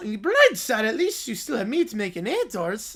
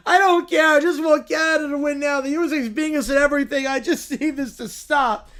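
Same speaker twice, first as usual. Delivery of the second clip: Caillou yell; 2 semitones higher than usual. Acted. Caillou yelling.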